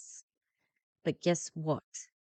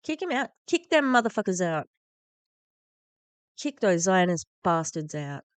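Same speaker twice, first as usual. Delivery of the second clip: angry demand; 2 semitones higher, 6 dB louder than usual. Real, not acted. Commentator demanding the ambassador's expulsion, furious. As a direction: spit the demand out in anger.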